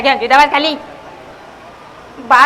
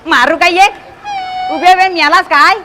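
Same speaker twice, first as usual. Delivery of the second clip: angry scolding; 3 semitones higher than usual. Acted. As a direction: scold him, half-joking threat. Scolding the helper.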